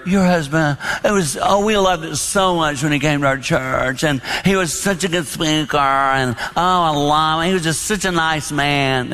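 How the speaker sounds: lightly voiced gushing churchgoers; mock church ladies. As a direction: gush a little over the late husband. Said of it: "I pictured people coming up to Jane".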